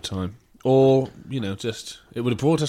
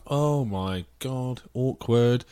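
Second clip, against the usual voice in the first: slow awkward aside; much slower than usual. Retold or imitated. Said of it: "I was like".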